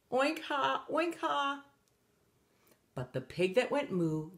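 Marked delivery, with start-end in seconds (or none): 0.1-1.6 high oink-ha jeers; higher-pitched pigs sniggering; mocking pig laughter. A narrator's reading. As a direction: laugh at someone in pig noises. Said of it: "The pigs that went oink laughed".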